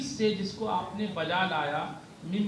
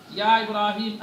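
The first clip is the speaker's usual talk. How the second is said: calling out; 7 dB louder than usual. Acted. Voicing the call to Ibrahim.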